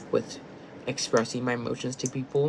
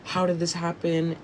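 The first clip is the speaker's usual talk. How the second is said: higher, lightly mimicked confusion; confused Steven; 6 semitones higher than usual. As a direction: ask it up high, baffled. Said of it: "Steven was like".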